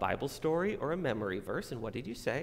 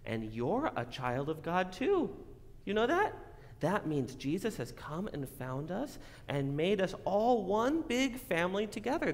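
put-on broad singsong kids theatre; 6 semitones higher than usual. Preaching to kids, big voice.

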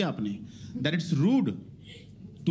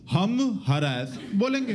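stubborn Americans voice; much slower than usual. Retold or imitated. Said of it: "Americans कहते हैं".

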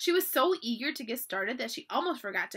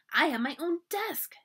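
put-on excited little girl; 5 semitones higher than usual. A narrator's reading. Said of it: "began jumping up and down".

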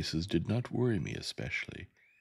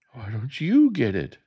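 high, much louder scream; 8 semitones higher, 9 dB louder than usual. Acted. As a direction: scream it back defiantly. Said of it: "I screamed".

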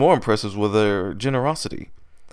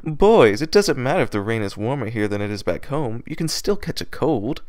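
mild scolding. Acted. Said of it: "a quick smirk to her lips".

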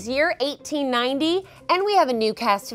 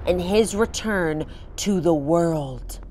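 dramatic story narration; 3 semitones lower than usual. Acted. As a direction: read it like a creepy tale. Game master reads haunt scene.

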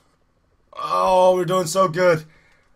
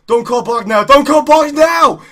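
shouted plea; 5 semitones higher, 9 dB louder than usual. Real, not acted. Pleading with game mid-race.

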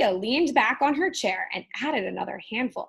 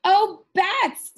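much higher, louder cry of alarm; startled witch shrieking; witch scream; 9 semitones higher, 9 dB louder than usual. Acted. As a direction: shriek it in sudden panic. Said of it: "screamed Ophelia".

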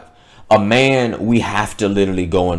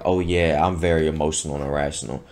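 mocking woman voice; 6 semitones lower, 6 dB quieter than usual. Mocking woman's inner thoughts.

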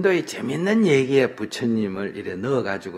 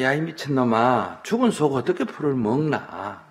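acted passerby's scolding; 4 semitones higher than usual.

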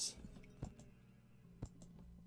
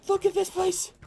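high, loud gamer yell; screaming; 14 semitones higher, 6 dB louder than usual. Real, not acted. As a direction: cry out high and loud in amazement. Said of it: "I'm screaming".

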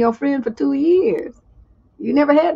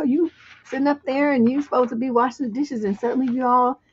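usual speaking voice

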